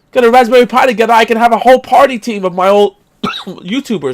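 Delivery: winding himself up, words tumbling out; getting mad. Real, not acted. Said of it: "Wow, I'm getting more mad".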